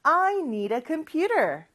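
"need a" said as one word in "I need a computer"; slow model sentence with "a" hooked onto "need"; linked "need a". Shown as a demonstration. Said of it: "한 번 더". ("need a"를 이어서 또박또박)

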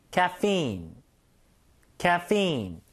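Caffeine said as kya-FEEN, stress on the second syllable, held long; English pronunciation demo. Shown as a demonstration. Teacher modelling Caffeine for students, stress held on the end. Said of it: "뒤에다 강세를 주시고 이제 좀 끌어주셔야 돼요".

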